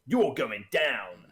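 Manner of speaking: loud, drawn-out challenge; mock threat. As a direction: stretch out the threat with playful force. Acts players threatening the villain.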